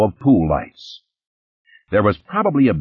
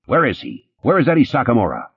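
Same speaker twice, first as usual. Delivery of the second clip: shouting; 5 semitones higher than usual. Acted. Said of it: "Graham was shouting".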